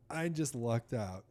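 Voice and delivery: ordinary delivery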